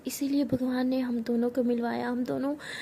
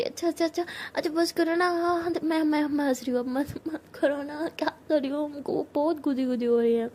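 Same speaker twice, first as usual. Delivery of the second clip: laughing while tickled; 3 semitones higher than usual. Acted. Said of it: "ज़ोर ज़ोर से हंसती कहती".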